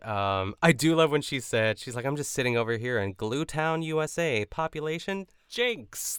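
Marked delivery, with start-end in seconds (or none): 2.1-6.2 derpy voice. Retold or imitated. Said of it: "She says it in, like, a derpy voice".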